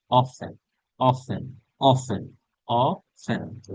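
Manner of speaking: often said as OFF-en, the t silent; often with no t sound, drawn out; often without the t. Shown as a demonstration. Teacher models often for students, t silent. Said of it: "টি এর উচ্চারণ হয় না".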